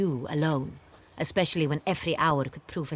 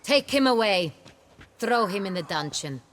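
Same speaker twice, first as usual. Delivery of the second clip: commanding order; 4 semitones higher, 3 dB louder than usual. Acted. Duchess commands guards.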